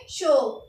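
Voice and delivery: शो said as a short sho, the d silent; शो with no d at the end; French word chaud. Shown as a demonstration. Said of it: "इसको pronounce करेंगे". (French उच्चारण में शो, डी silent)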